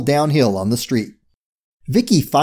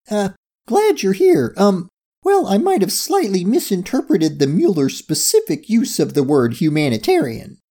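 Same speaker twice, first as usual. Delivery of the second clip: awkward admission; 6 semitones higher than usual. A narrator's reading. Character makes an awkward admission.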